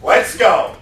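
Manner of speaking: pretend loss prevention manager. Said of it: "I'm the loss prevention manager".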